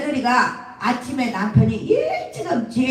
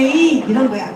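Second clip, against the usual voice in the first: ordinary talk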